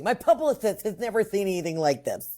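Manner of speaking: light mimicked lisp on the s sounds; imitated lateral lisp. Guest copying the host's impression of the man, lightly imitated lateral lisp. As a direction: echo the quote with a hint of slushy lisp. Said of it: "you have the lateral lisp down perfectly".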